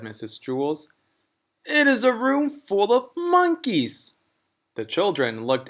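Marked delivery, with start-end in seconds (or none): 1.7-4.1 higher, bright-eyed schoolteacher voice; a sweetly puzzled teacher; higher teacher voice, mildly baffled; teacher character voice. Acted. Mrs Jewls voiced in story.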